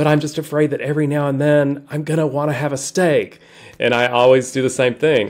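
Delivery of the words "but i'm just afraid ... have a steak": put-on whisper, higher pitched. Retelling what people at events whisper to the speaker: imitating someone whispering. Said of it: "drop their voice down to a whisper".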